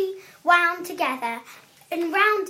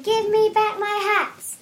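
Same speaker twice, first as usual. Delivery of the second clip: higher, mildly cross demand; indignant demand; 5 semitones higher, 4 dB louder than usual. Acted. Hat seller to thieving monkeys, indignant demand.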